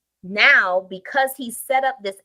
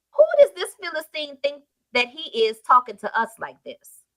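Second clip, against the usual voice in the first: higher, rising outrage as David; David rallying the army against the Philistine; indignant David; 4 semitones higher than usual. Acted. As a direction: build to a defiant challenge. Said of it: "asks the same question".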